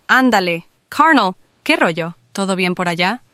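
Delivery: relaxed northern Mexican regio slang; Monterrey accent. Shown as a demonstration. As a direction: greet like a laid-back regio buddy. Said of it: "dar alguna oración en acento regio".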